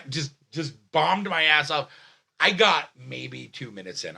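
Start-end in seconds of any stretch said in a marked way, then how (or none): 2.4-4.2 full-voiced telling; raised storytelling voice. Real, not acted. Comic recounts bombing on stage, voice raised. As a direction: tell it at full conversational volume. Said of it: "I'm sorry, I'm yelling".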